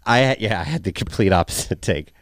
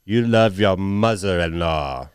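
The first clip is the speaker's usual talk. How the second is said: put-on French accent; 2 semitones lower, slower than usual. French-accent joke about the character.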